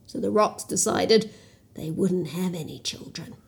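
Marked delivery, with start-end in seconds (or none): 1.8-3.4 hushed storyteller whisper. A narrator's reading. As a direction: whisper it like a secret.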